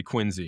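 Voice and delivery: Quincy as QUIN-zee, with a Z; Quincy with a buzzing "zee" ending; Z pronunciation. Shown as a demonstration. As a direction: say Quincy the Massachusetts way, with a Z. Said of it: "I would have known to say Quincy".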